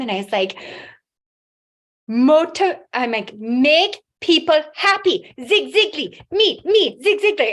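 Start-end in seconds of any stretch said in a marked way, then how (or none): 2.1-7.5 higher, louder, word by word, struggling; halting broken speech. Retold or imitated. Brain-injured patient telling her team her dream, halting. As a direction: imitate herself fumbling for words. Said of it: "'cause I had about twenty-five words at this time".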